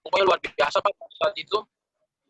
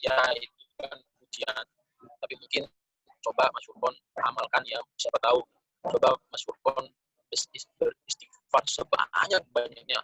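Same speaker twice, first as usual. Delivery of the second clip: lower, softer voice of an advisor; menasihati, calm counsel; 6 semitones lower, 4 dB quieter than usual. Retold or imitated. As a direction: quote an older colleague's gentle advice, low and measured. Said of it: "Hanya beliau nasihati pada saat itu". (menasihati dengan suara rendah dan lembut)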